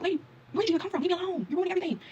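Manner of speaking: high-pitched acted complaint; exasperated protest. Traveler protesting to the lady sharing her cab, exasperated. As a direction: plead to be rid of a pest.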